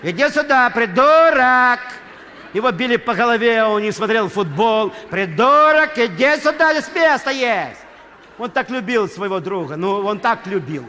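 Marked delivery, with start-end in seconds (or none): 0.0-1.8 loud high shout across the field; yelling across the stadium. Retold or imitated. Boy shouting to his friend across the stands, loud high yell. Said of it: "он кричал". 5.1-7.8 loud high shout, last words drawn out; yelling across the stadium. Retold or imitated. Boy calling his friend to a free seat, loud high yell.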